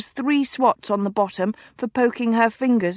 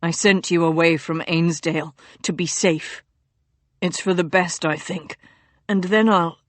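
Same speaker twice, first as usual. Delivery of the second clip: low, urgent hushed warning to a sister; delirious duke warning his sister, low and hushed; feverish duke; 4 semitones lower than usual. A narrator's reading. Feverish duke's voice.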